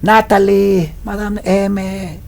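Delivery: high calling shout of her name; mock distant shout; man shouting. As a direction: yell her name from far off. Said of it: "Grita un hombre a lo lejos".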